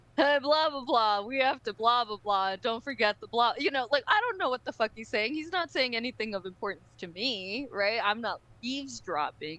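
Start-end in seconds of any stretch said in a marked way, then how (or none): 0.2-3.6 ordinary man's normal everyday voice. Describing a man who turns to a lady nearby, imitating his normal voice. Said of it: "in his, like, normal voice".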